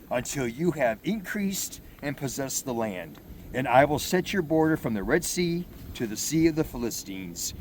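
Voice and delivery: proclaiming scripture to the congregation; scripture reading. Acted. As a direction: read the passage out like from the pulpit. Reads scripture aloud.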